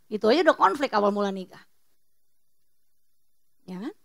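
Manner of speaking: normal talking voice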